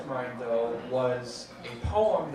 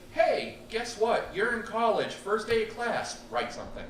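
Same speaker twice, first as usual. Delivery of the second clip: excited announcing; 7 semitones higher, 3 dB louder than usual. Retold or imitated. Professor announcing the assignment.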